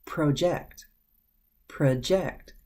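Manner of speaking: "project" as the verb, stress on the second syllable; "project" with a reduced first vowel and stressed "ject"; verb pronunciation. Shown as a demonstration. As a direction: say "project" as pruh-JECT, demonstrating slowly. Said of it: "but it's pronounced differently".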